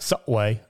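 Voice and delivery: "Subway" in Cockney with the B barely hit; Cockney "Subway", B softened; soft B. Shown as a demonstration. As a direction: swallow the B in "Subway". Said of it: "wouldn't hit that B too hard".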